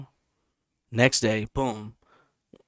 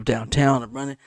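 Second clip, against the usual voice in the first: ordinary delivery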